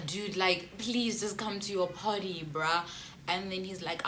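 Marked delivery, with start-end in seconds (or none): 0.1-2.8 pleading. Retold or imitated. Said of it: "I started crying".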